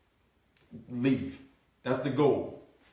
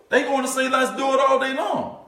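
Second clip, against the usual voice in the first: much higher, loud eager cry; excited shout; 10 semitones higher, 6 dB louder than usual. Retold or imitated. Speaker voicing eager business owners agreeing, loud excited shout.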